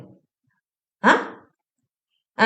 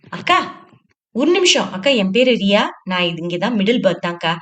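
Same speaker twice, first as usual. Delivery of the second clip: calling out. Acted. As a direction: pipe up eagerly to catch her. Young girl calls out, offers help.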